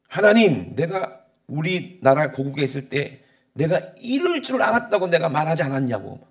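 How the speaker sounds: acted grievance, opening loud on the address; resentful complaint. Jonah praying to God after Nineveh is spared, resentful complaint. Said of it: "원망합니다".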